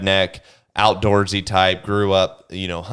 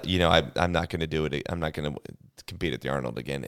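playing it off; 4 semitones lower, 8 dB quieter, faster than usual. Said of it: "I even played it off like".

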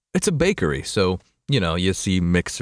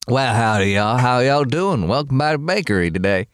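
put-on Southern accent, folksy welcome; 3 semitones higher than usual. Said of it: "I started the Southern accent".

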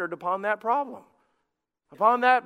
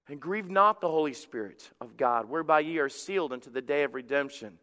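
lower, measured Bible reading; scripture reading; 4 semitones lower than usual. Acted. Pastor reading Ephesians with the congregation, solemn scripture reading. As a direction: read the verse aloud in a lowered voice.

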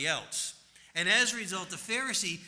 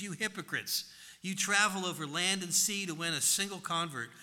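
scathing scripture reading. Acted. Preacher reading Jesus' woes to the Pharisees, forceful and declaiming. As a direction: thunder the woes at the hypocrites.

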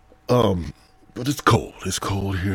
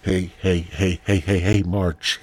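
calling out; 6 dB louder than usual. Real, not acted. Calling out to Marge.

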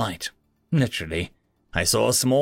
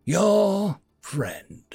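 calm voice; 7 semitones higher than usual. A narrator's reading. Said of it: "in a calm voice".

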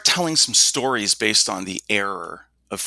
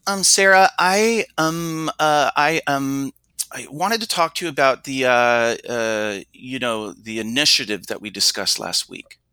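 halting, fragmented talk; 3 semitones higher than usual. Shown as a demonstration. Speaker demonstrating bad habits to the listener, hesitant and fragmented. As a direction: stumble through with ums and uhs. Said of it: "I'm gonna speak in a certain way now to illustrate".

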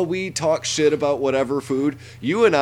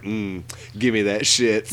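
greedy redneck voice; 5 semitones lower than usual. Retold or imitated. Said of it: "the white trash honky in me is just like".

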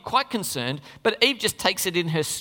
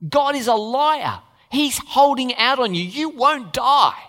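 slow, louder, emphatic accusation; insistent accusing Satan; 4 semitones higher, 4 dB louder, slower than usual. Retold or imitated. A hint of Satan telling Eve God lies, slow and pressing. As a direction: lean in hard on the accusation. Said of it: "the first thing he says is".

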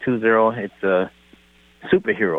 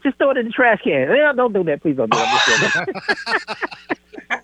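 high mock pleading voice; 10 semitones higher, much slower than usual. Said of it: "I said".

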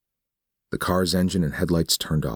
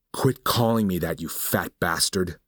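angry retort; 4 semitones higher than usual. Acted. Nick snaps at Olsen.

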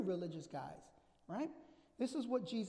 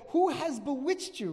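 challenging question; 6 semitones higher, 9 dB louder than usual. Acted. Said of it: "he says to them".

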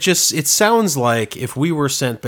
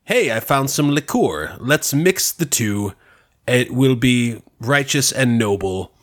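mock translation. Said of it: "You said".

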